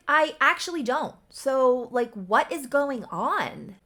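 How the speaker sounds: loud, high exasperated demand; angry. Retold or imitated. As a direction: demand an answer, fed up. Angry girlfriend confronts drunk boyfriend.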